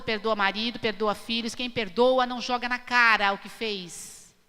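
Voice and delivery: ordinary delivery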